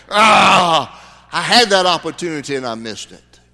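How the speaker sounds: a hint of an anguished cry of regret; lightly voiced lost soul lamenting. Lost soul in hell regrets a missed chance, mildly anguished. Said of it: "gnashing of teeth when it's like that".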